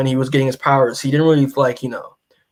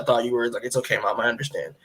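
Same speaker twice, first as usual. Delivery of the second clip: soft, lowered voice of a forgiving son; gently reassuring; 3 semitones lower, 6 dB quieter, faster than usual. Retold or imitated. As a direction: retell it tenderly, trailing down quietly. Son reassures his mother, retold.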